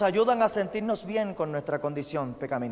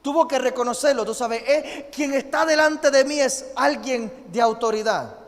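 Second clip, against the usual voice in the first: raised, urgent preacher's voice; preaching at full force; 5 semitones higher, 4 dB louder than usual. Acted. Pastor urging the congregation to kneel before God, full-force preaching. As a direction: drive the point home to the church.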